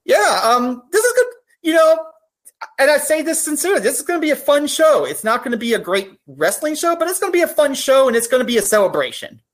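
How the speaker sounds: holding back real tears while praising the show; getting emotional. Real, not acted. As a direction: voice rising high and close to tears. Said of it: "sorry, I'm getting a little emotional".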